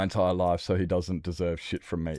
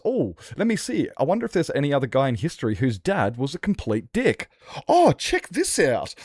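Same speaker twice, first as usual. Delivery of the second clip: sarcastic son; 7 semitones higher, 5 dB louder than usual. Retold or imitated. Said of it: "And he goes".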